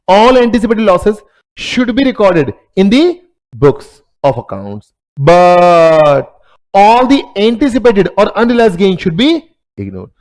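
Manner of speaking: spelling out each word slowly for notes; slow dictation. Acted. Teacher dictating a definition to students, very slow and deliberate. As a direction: dictate it so students can write.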